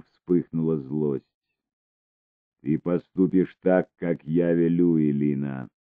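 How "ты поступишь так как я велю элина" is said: plain reading voice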